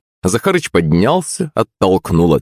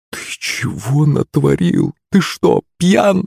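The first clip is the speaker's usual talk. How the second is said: high-pitched distressed woman's voice; tearful sob; 8 semitones higher, slower than usual. A narrator's reading. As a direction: whimper the question, on the edge of tears. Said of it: "всхлипнула Пышка". (всхлипывая)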